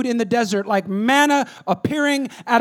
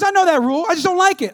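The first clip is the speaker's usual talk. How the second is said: put-on 1 defiant kid; 9 semitones higher, 7 dB louder, faster than usual. Son defying dad.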